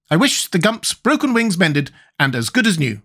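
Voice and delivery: solemn wish, starting high and settling down; slow, impressive. A narrator's reading. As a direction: pronounce the wish slowly and grandly. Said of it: "in a slow, impressive voice".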